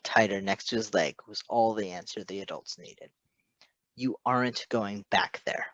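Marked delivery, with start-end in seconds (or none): 3.9-5.7 firm conclusion. Acted. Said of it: "Patton concluded".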